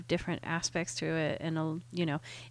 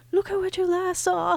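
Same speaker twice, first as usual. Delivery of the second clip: imitating a rapper; 12 semitones higher, 3 dB louder than usual. Quoting a rapper's verse, high pitch.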